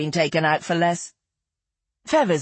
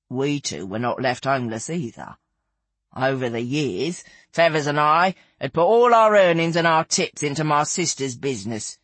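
lightly voiced companion, often pitched down; Lizzie, matter-of-fact. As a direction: recount it drily and unhurriedly. Narrator voices Lizzie taking up tale.

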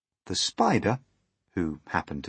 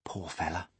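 softer, confiding centipede voice; hushed aside; 7 dB quieter than usual. A narrator's reading. Centipede pitying earthworm to James, hushed aside. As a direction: say it softly into an ear. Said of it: "whispering in James's ear".

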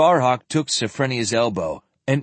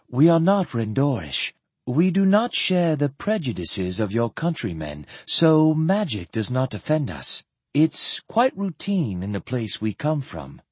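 lightly voiced composed woman, a little higher; composed lady; 3 semitones higher than usual. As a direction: explain with poise to a nervous doctor.

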